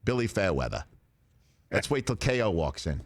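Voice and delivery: put-on light thick Boston accent; a hint of a Boston accent. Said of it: "And he thick Boston accent".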